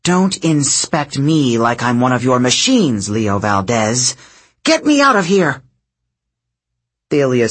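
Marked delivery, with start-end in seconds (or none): 0.0-5.6 exasperated aunt snapping at her nephew. Acted. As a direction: huff it out, fed up with him. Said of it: "sighed in exasperation".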